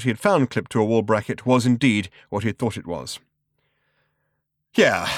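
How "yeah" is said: relieved, a touch sneering. Acted. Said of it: "in a kind of relieved sneer".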